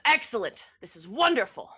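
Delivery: loud, theatrical satisfaction; delighted villain. Acted. Villain clapping as Atticus agrees to help him, delighted. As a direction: relish each word of praise.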